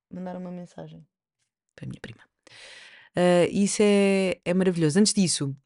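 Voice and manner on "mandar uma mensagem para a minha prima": distracted murmur. Real, not acted. Aside while texting her cousin.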